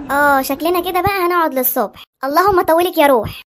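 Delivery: slow, resigned grumbling; long-suffering husband losing patience; weary exasperation. Acted. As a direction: drag it out, praying for patience. Out of patience with sulking wife.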